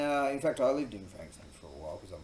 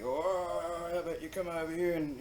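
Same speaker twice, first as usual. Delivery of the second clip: higher, lightly imitated aggressive bloke; mock tough challenge; 8 semitones higher, 5 dB louder than usual. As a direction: call him over in mild mock menace. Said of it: "he's trying to be".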